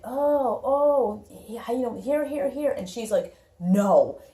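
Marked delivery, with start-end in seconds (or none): 0.0-2.7 higher mock voice of people piling things on; pushy people. 3.6-4.2 a loud flat final no; firm no. Retold or imitated. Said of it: "how firm she is here".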